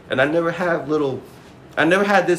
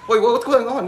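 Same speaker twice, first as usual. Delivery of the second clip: high, loud, laughing through the question; confused panic through laughter; laughing mock panic; 10 semitones higher, 5 dB louder than usual. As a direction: act baffled while cracking up.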